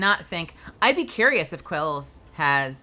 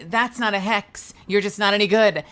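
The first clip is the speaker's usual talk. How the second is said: requesting a catchphrase; 4 semitones higher, 5 dB louder than usual. Retold or imitated. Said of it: "they'll be in chat going like".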